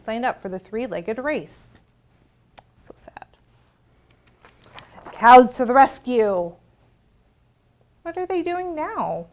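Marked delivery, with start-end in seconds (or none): 2.7-3.3 soft whisper of pity; whispered aside. Acted. Librarian whispering sympathy to the children. 5.1-6.5 loud ringing call of the title; refrain called out. Acted. Librarian calling the refrain to the children, loud.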